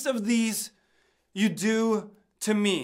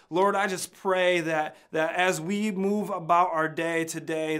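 spoken prayer; 3 semitones lower than usual. Real, not acted. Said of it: "pray along with me".

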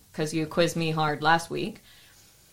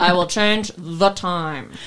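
put-on Russian accent; slower than usual. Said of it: "insulted your accent with my Russian accent".

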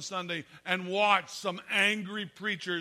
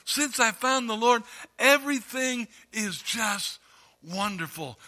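loud, higher gushing joy; fervent new convert; 5 semitones higher, 7 dB louder than usual. Retold or imitated. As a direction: put on a beaming happy mask. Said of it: "we put on the happy mask".

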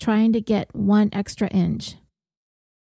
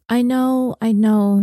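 irritated; 2 semitones higher, 3 dB louder, slower than usual. Acted. Maria stomping in, irritated.

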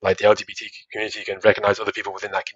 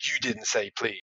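mock strict parent; 11 dB quieter than usual. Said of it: "the type of parents who is like".

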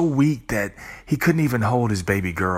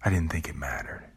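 much softer, a small ashamed confession; sheepish admission; 3 semitones lower, 12 dB quieter than usual. Pretend. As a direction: mumble it like a caught-out child. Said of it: "you'd say".

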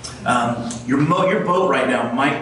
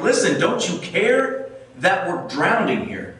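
panicked disciples; 5 semitones higher than usual. Retold or imitated. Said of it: "and they're like".

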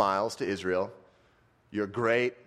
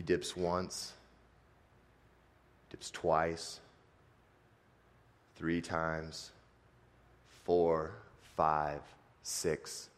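slow count dropping softer to a whisper; fading count; 5 semitones lower, 6 dB quieter, much slower than usual. A narrator's reading. Preacher counts Naaman's dips, fading softer to a whisper. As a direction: let each number sink quieter until it's breath.

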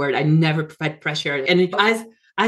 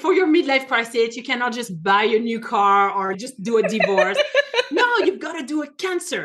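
voicing the friend's joke while laughing, higher; 4 semitones higher than usual. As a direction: laugh through the friend's teasing line. Friend joking about cancer.

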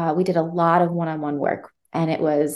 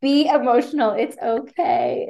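reassuring; 5 semitones higher than usual. Retold or imitated. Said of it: "I was like".

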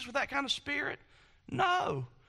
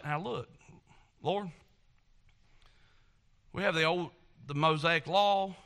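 humble seeking prayer; 4 semitones lower than usual. Retold or imitated. Voiced humble seeker.

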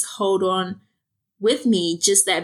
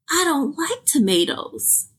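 put-on pouty child; 6 semitones higher than usual. Clara complains, picky child.

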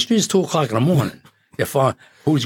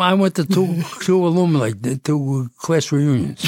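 laughing; 6 semitones higher than usual. Real, not acted. Joke about attending reunions.

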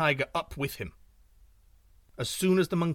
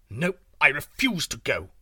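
snapped; 6 dB louder than usual. Acted. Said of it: "snapped the tiger".

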